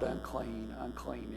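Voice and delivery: soft, hushed "Unclean, unclean," with no shout left in it; softly echoed cry. Retold or imitated. Preacher telling the flock the leper's cry is over, soft and hushed. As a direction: let "Unclean, unclean," fade to a murmur, the cry no longer needed. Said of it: "not gonna have to cry out".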